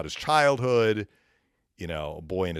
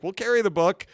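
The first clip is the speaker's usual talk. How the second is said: high, loud eager agreement; eager yes; 13 semitones higher, 7 dB louder than usual. Retold or imitated. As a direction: chirp it like a happy shopkeeper. Store staff agreeing, retold.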